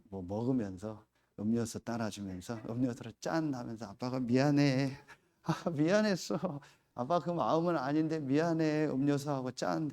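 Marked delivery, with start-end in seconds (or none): 3.9-9.9 father apologizing to daughter over a drink; tender apology. Retold or imitated.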